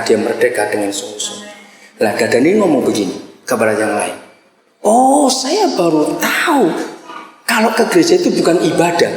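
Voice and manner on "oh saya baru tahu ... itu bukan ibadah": mock realisation. Retelling a convert's discovery about church, mock surprise. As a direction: act out a newcomer's surprise, easing down.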